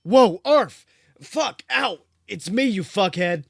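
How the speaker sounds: high, loud yelp of a small dog; barking corgi. A narrator's reading. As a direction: yelp like a corgi knocked aside. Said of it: "the small yellow corgi barked".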